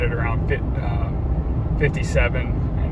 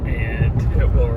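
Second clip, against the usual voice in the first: on a bumpy road; slower than usual. Real, not acted. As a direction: voice jolted by road bumps. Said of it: "sorry for the bumps".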